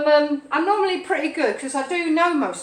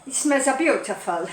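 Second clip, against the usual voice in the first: light put-on Italian lilt; half-hearted Italian accent; mock Italian accent. Shown as a demonstration. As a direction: add a touch of stage Italian. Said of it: "That sounds a bit Italian".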